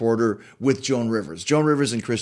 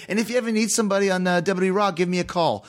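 imitating Joan Rivers; 5 semitones higher, faster than usual. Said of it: "she goes".

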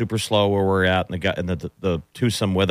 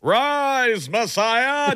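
high calling-out yell; yelling across the room; much slower than usual. Pretend. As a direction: call the kid down for dinner. Mom calling kid to dinner.

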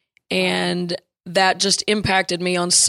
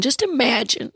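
lightly voiced North Carolina drawl, a touch higher; a hint of a North Carolina drawl, imitating the coach; Coach Yao's North Carolina drawl; 5 semitones higher than usual. Coach pitching her vision over lunch, a light North Carolina drawl. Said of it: "in that North Carolina drawl".

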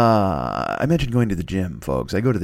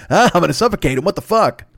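mock panicked kid; 6 semitones higher, 3 dB louder than usual. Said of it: "you're just like".

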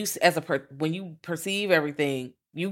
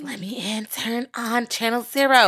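creepy vampire plea; 6 semitones higher than usual. Pretend. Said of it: "like Salem's Lot scratching at your fucking window".

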